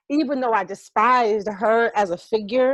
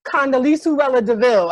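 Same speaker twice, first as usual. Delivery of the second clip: mock villain name; 3 semitones higher, 6 dB louder than usual. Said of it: "most sinister bitch alive".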